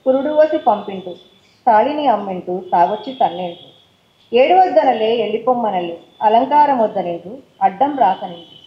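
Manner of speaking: rhythmic verse reading, paired lines rising then falling; poem recital. Acted. Poet reciting her poem about women to the audience, rhythmic recital. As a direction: chant the couplets with steady rhythm.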